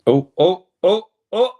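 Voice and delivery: loud, rising oh oh at a chance; real excitement as Brazil nearly score; excited cries. Real, not acted. Watching Brazil nearly score, excited loud cries. Another near miss in match.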